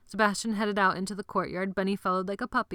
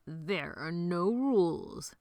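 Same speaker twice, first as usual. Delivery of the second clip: Sebastian; much slower than usual. Acted. Grand reveal to the boys.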